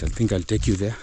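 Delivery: breathing heavily after climbing; winded from walking uphill. Real, not acted. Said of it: "Sorry, I'm breathing heavily".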